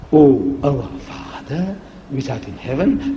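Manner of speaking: slow, reverent prayer voice; prayer recitation. Shown as a demonstration. Preacher reciting the Lord's Prayer to the audience. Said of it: "recites prayer".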